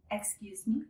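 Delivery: "Excuse me" rising at the end; polite attention-getting "Excuse me", tune going up; rising intonation. Shown as a demonstration. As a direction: lift the pitch on "me". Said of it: "with a rising intonation".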